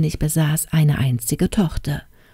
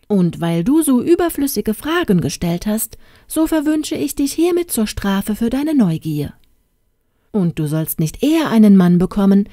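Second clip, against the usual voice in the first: indignant fairy. Acted. Fairy godmother cursing the princess out of spite. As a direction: proclaim the curse with wounded pride. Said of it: "rief die Fee aufgebracht".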